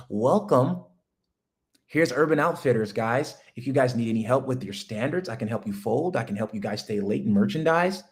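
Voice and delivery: lightly voiced eager retail greeting; a hint of a chirpy shop clerk; polite store clerk. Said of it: "I'm talking like that".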